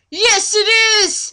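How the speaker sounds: high, loud, slow announcement; hammed-up triumphant yes. Reading Strider's reveal to a friend, high and triumphant. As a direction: proclaim it like a ham hero.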